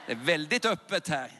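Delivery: "Det är väldigt öppet här" shouted out at full volume. Real, not acted. Preacher calling to the packed church, shouting. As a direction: throw it out to the back of the hall. Repeats line then shouts.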